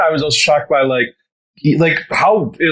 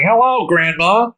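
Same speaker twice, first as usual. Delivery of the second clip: sweet fake grandson; 4 semitones higher, slower than usual. Parodying scammer message.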